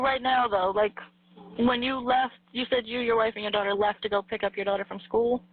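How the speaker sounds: ordinary delivery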